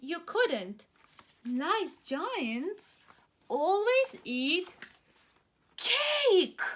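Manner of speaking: put-on children to the giant, coaxing; children pleading. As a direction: talk the giant out of it sweetly.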